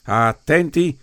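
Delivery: loud, high shouted order; shouted command. Acted. Finn calling the men to attention, shouted order. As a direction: bark it like a drill sergeant. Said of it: "ordinò Finn".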